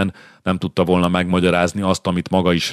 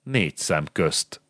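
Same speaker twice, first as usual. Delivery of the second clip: softer, slow, annoyed through the teeth; a king's testy aside, softer and slow; 6 dB quieter, slower than usual. Acted. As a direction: grit it out, irritated and slow. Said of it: "szűrte bosszúsan a fogai köz".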